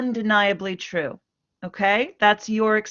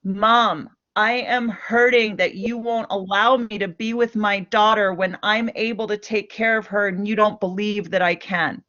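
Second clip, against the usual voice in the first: blaming statement. Shown as a demonstration. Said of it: "Do you hear the difference there?".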